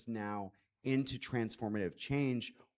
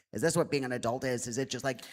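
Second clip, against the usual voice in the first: lightly voiced overworked young adult; a hint of a mock complaining voice; put-on friend's voice; faster than usual. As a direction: imitate her griping, only lightly put on. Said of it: "I do this as her voice".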